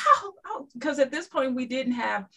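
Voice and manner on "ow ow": high, loud mock wailing. Soldier retelling wailing over Ruth Handler's death, high mock wail. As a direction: wail it like a hurt kid.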